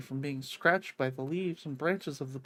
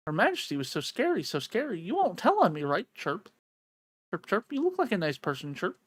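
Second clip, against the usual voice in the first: chirpy little bird; 2 semitones higher, 4 dB louder than usual. Acted. Voices the little bird character.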